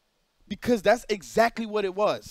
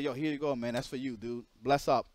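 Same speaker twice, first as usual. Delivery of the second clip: hushed, lowered like passing something secretly; secretive; 8 semitones lower, 6 dB quieter than usual. Retold or imitated. Charles handing over cash on the sly, a hushed mutter. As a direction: keep it hushed, a lightly voiced sneaky handoff. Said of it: "doing it like it was on some secret shit".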